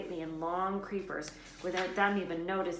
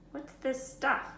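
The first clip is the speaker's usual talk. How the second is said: Ron; 8 semitones higher, 4 dB louder, slower than usual. A narrator's reading. Ron lands in plant.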